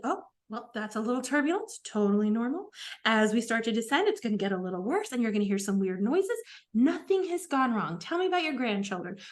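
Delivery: calm the passenger like a flight attendant. Retold or imitated. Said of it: "you just put on your flight attendant voice".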